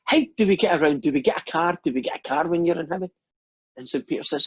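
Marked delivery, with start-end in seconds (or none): 0.0-3.1 eager Scotsman firing questions; acted excitement, a little higher; excited. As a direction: ask eagerly, questions tumbling out. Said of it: "Scotsman gets dead excited".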